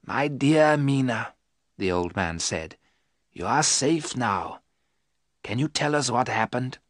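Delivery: calm her down gently; gentle reassurance. Acted. Van Helsing comforts Mina.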